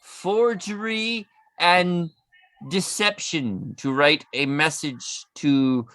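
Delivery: hint of a demon reading a letter; demonic layered voice. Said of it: "let me put a demon voice on".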